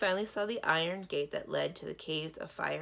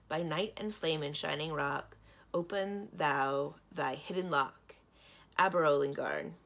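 reciting a spell. A narrator's reading. Princess recites a charm to open the gate, incanting. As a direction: chant the charm, landing firmly on the magic word. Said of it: "Quickly, Samarine recited".

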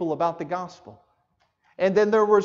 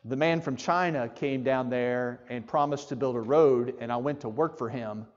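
retold testimony; 6 semitones lower, 6 dB quieter than usual. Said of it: "as our brother Tom was telling me".

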